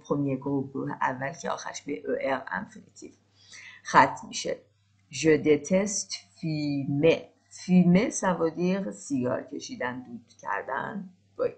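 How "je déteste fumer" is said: slow, drawn out sentence; slow model sentence. Shown as a demonstration. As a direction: model it slowly for listening. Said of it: "slow model sentence".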